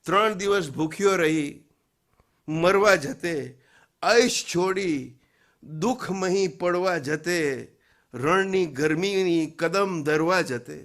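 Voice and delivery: measured, declaimed questioning verse; poem recitation. Acted. Preacher asks listeners about Karbala, poem recitation.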